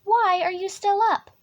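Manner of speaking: high scolding elephant mother; trumpeting elephant. A narrator's reading. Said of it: "trumpeted Mommy Elephant".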